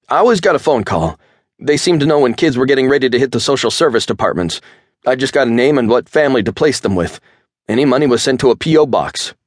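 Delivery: high, loud, fast nervous blabbing; scared snitch. A narrator's reading. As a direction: blurt it all out, frightened. Chad's voice, talking fast.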